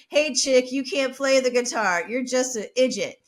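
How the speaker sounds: imitated yell at the bassist; retold yelling. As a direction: heckle her without fully shouting. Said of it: "he starts yelling her".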